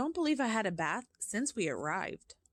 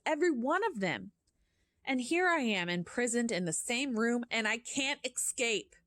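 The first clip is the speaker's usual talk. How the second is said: put-on boy's panicked thought; 5 semitones higher than usual. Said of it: "I thought".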